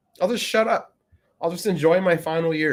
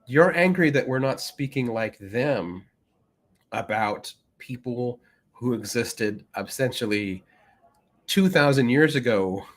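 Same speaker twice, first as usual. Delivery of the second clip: mock incredulous Cleese. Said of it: "it's like".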